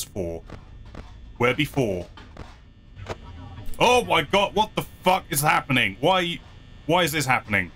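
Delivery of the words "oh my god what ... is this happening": raging gamer. Real, not acted. Game crashes from scare.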